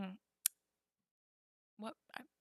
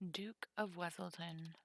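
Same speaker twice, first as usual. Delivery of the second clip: whispered; 4 semitones lower, 8 dB quieter than usual. Real, not acted. Streamer sorting cards, whispering to self. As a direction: mutter the card name to yourself. Reading card name.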